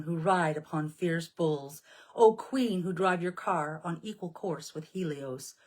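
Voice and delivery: slow, ceremonial invocation, every epithet given weight; solemn hymn recitation. Acted. Priestess reciting the Orphic hymn to her viewers, solemn invocation. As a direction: call on the goddess as if at an altar.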